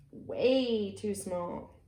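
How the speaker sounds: chuckling through the words, slowly; laughing. Real, not acted. Reader laughing at the too-small doghouse, amused. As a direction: let a laugh spill out as you read.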